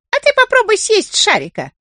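high rooster call from a distance. Acted. Rooster taunts the carpenter from a distance, high call. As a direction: shout the jab from far off. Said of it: "крикнул петух издали".

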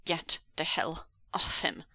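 firm, controlled warning; measured threat. Acted. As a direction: warn them off, voice held down. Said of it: "Wei Wuxian warned".

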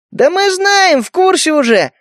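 high yell from the crowd; shouted out. Acted. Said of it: "выкрикнул Поли".

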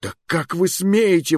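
be scandalized; indignant outburst. A narrator's reading. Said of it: "возмутился я".

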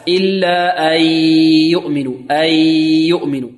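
chanted أن يؤمنوا with the merged y dragged out; overstretched y mistake. Shown as a demonstration. Teacher showing what counts as wrong, overstretching. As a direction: exaggerate the length of the y in أن يؤمنوا. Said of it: "ويمطها هكذا".

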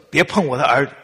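guard your son fiercely; possessive snap. Pretend. Possessive mother warning the girlfriend off, sharp and loud. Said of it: "如果你说".

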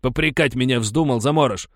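loud, high savage threats; furious miner threatening to devour the boy; raging. A narrator's reading. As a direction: rage at him. Rages at the boy.

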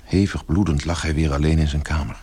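ordinary talk, nothing marked

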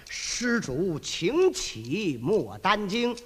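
low, gentle monk's voice; Tang Seng. Acted. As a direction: speak as a humble, apologetic old monk. (低沉温和的唐僧声音)

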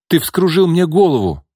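Nina's accusation losing its confidence. A narrator's reading. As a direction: accuse him, but the certainty slips. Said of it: "уже не так уверенно произнесла она".

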